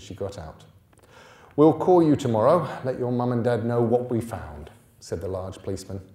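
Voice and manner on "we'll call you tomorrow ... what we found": policeman's voice. A narrator's reading. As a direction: reassure the girl, officially. Policeman to niece.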